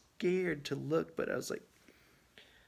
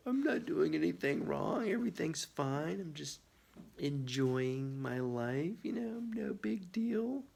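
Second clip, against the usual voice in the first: mock innocent; 4 semitones higher than usual. Voicing innocent dog.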